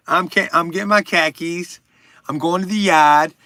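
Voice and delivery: lightly put-on Boston accent; mock Boston accent. Streamer claiming to be Irish, joking Boston accent. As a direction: slip playfully back into Boston talk. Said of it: "I can do Boston for one".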